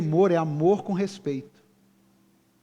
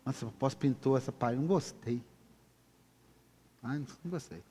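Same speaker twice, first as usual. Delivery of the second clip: quieter, fast mocking whine; mock complaining member; 8 dB quieter, faster than usual. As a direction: mimic a fussy churchgoer turning up their nose. Imitating a complaining churchgoer. (imitação de fiel reclamão)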